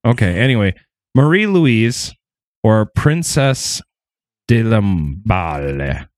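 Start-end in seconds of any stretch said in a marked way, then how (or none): 1.1-6.1 French pronunciation. Acted. Names said with French flair.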